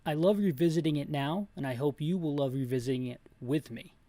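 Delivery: ordinary talk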